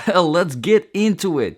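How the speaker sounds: chuckling through it; laughing. Real, not acted. Still laughing at his own joke to viewers, laughing. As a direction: laugh as you kick things off. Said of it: "this is serious".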